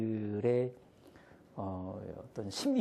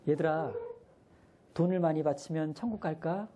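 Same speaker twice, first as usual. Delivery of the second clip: put-on bright, higher teacher voice to little kids; teacher asking kids; 4 semitones higher than usual. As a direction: ask like a Sunday school teacher. Teacher asks kindergarteners.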